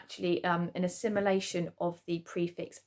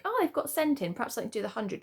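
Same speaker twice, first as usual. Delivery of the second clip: naive guess; 4 semitones higher, much faster than usual. Pretend. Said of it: "these words you would think".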